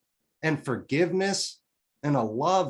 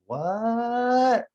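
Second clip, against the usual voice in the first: a high, disbelieving what, much higher and a little louder; stunned what; 9 semitones higher, 3 dB louder than usual. Retold or imitated. To his mom revealing the secret, a high shocked what. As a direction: let the shock jump out high.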